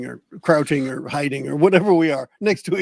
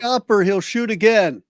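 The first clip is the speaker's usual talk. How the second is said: raised, slowed warning call; acted shout; 4 semitones higher, 4 dB louder than usual. Player yelling through a closed door, mock shout. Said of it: "you attempt to shout".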